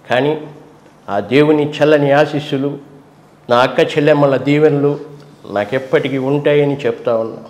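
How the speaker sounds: soft-spoken leader thanking the people; Jagan impression, simple. Mimicking Jagan's calm speech to the people, low and soft. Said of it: "ఇట్లా ఉంటుంది సింపుల్గా".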